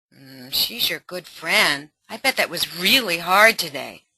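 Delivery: ally mother validating daughter; empathetic mother. Acted. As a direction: reflect her feelings gently. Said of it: "ally mother".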